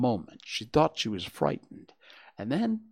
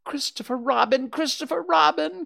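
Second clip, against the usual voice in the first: high, loud, urgent appeal; crying out; 6 dB louder than usual. A narrator's reading. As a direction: call the name twice, climbing in pitch. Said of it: "cried Piglet".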